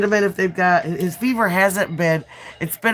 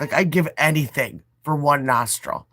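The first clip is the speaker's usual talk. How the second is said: stuffy nose from the flu; talking through a blocked nose. Real, not acted. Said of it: "I just want one nostril back".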